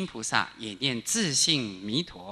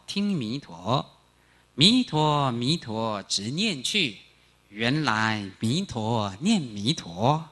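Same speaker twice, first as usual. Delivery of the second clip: slow verse reading; 2 semitones lower, much slower than usual. Shown as a demonstration. Teacher slowly reads a verse to students, very slow recitation. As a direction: recite each phrase very slowly. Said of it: "我念给你听".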